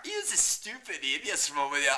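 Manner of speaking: ordinary talk, nothing marked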